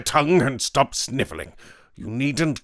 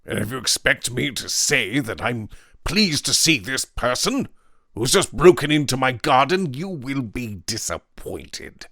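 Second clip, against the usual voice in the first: loud, hard refusal; angry Weston; 5 semitones higher, 6 dB louder than usual. A narrator's reading. Weston refuses to welcome the intruder, loud and angry. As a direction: bark at the intruder. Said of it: "said Weston".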